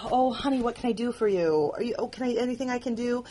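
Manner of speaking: a hint of a fretting friend offering help; fussing sympathetic friend. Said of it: "there was a lot of".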